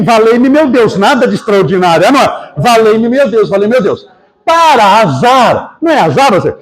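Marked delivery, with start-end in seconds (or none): 0.0-4.1 grito imitado. Retold or imitated. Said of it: "Chico começou a gritar também".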